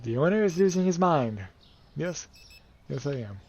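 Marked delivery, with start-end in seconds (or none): 0.0-1.4 higher put-on voice of another guy; mock bystander voice; voicing an NPC. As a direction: voice the onlooker mockingly. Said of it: "He's like".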